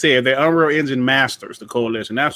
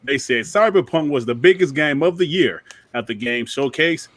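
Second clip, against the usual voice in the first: newscaster voice. Acted. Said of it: "Let me talk to my newscaster voice".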